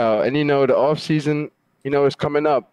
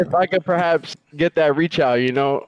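chewing while talking. Real, not acted. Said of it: "You literally sound like you're eating right now".

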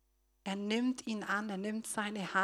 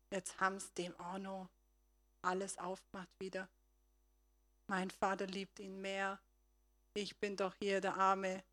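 muttering resentment; 6 dB quieter than usual. Acted. Jealous son's inner voice.

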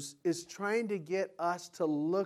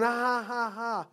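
mocking laugh; 5 semitones higher than usual. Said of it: "people are going".

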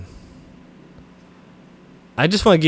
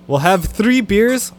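mock German; 4 semitones higher, slower than usual. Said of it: "So what's your German like?".

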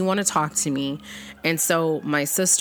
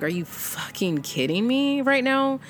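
pitched way up in disbelief, are you kidding; half-mock outrage, voice jumping higher; outraged disbelief; 8 semitones higher than usual. Furious inner reaction at church.

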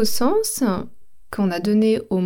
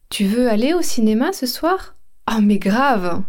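excited mais grave. Shown as a demonstration. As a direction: answer with a big eager yes. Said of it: "Premier exemple".

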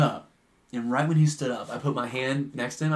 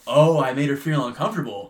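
sarcastic echo; 5 dB louder than usual. Retold or imitated. Customer sarcastically echoes accusation.

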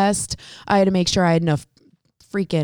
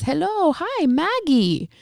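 imitating the boss; 9 semitones higher, slower than usual. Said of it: "So he says".

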